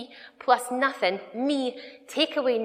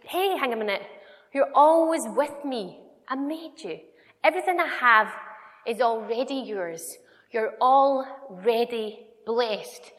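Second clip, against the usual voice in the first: louder, slowing, rising to a ringing blessed; voicing God, emphatic; 4 dB louder than usual. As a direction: pronounce it warmly and build to blessed. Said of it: "God just looks at us and he's like".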